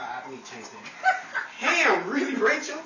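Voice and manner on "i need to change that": shouting the line through laughter; laughing shout. Real, not acted. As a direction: blurt it out while cracking up.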